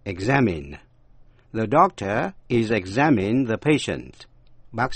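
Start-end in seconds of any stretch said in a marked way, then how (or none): 0.0-0.8 "Examine" with the last syllable "min", not "main"; short i sound. Shown as a demonstration. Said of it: "Đọc với âm E".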